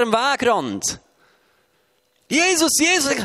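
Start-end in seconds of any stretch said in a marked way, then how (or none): 2.3-3.1 high, pleading call from the roadside; calling beggar. Acted. Blind beggar at the roadside calls out to Jesus, pleading.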